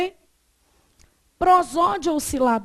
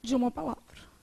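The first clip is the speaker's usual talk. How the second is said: dictating. Real, not acted. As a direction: dictate it piece by piece with long pauses. Teacher dictating notes to class.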